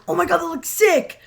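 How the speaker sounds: half-mocking thrill at a spooky museum; excited gush. Kid on the street gushing over a wax museum, excited. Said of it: "and you're like".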